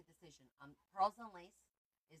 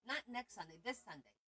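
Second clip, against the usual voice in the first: NOT and THIS punched higher and louder; contrastive stress; 7 semitones higher, 6 dB louder than usual. Real, not acted. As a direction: hit "Not" then hit "this" hard. Correcting which Sunday.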